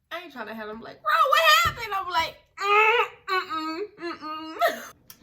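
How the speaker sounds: high, loud, squeaky mock-crying no; whiny laughing refusal. Telling friend about refusing the ex, mock-crying whine. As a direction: whimper it out, laughing half in tears.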